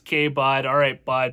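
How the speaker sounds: casual Canadian slang accent. Shown as a demonstration. Showing the way Canadians talk, in a light Canadian accent. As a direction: say it like a laid-back Canadian bud. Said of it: "we are here as Canadians".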